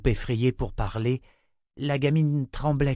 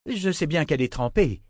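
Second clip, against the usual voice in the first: impatient sister; 7 semitones higher than usual. Acted. Sister surprised, presses innkeeper.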